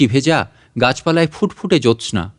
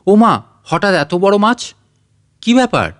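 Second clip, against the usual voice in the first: surprised; 5 semitones higher than usual. Acted. Wife sees big fish.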